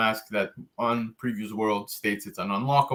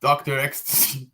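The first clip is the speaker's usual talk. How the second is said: laughing; 3 semitones higher than usual. Real, not acted. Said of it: "I can't even finish saying it without laughing".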